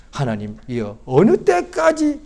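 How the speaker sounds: slow plea leaping high in the middle; mock a drawn-out cry to God; imitated tearful plea. Psalmist pleading for an answer, imitated tearful lament. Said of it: "라고 막 우는 거예요".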